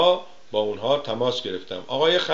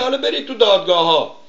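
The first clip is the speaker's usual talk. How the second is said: mock evasive reply; 8 semitones higher, 7 dB louder than usual. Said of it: "میگه".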